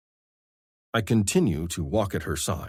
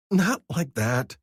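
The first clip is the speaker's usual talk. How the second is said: higher, slow amused woman's voice; Vivi's voice; 8 semitones higher, 3 dB louder, slower than usual. A narrator's reading. Vivi correcting Scar, slow and amused. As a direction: gently correct him, amused.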